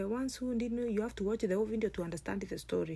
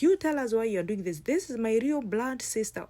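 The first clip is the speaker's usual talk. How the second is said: angry accusation; 3 semitones higher, 6 dB louder than usual. Acted. Sister accusing the cheating guy.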